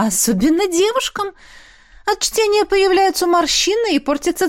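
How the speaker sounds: high, haughty concubine's voice; proudly explaining. Acted. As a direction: explain it with proud, lofty superiority, pitched high. Concubine continues speech.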